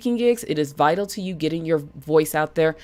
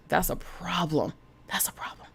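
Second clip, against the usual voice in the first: hushed; 11 dB quieter than usual. Acted. Echoing a warning softly.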